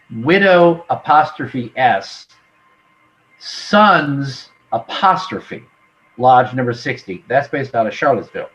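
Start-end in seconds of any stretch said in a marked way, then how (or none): 0.1-7.2 "Widow apostrophe S, Sons apostrophe" slowly spelled, with the punctuation named aloud. Shown as a demonstration. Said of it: "I'll spell this out".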